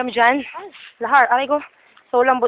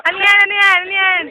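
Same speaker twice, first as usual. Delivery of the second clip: startled; 7 semitones higher, 3 dB louder than usual. Real, not acted. Startled at something in water.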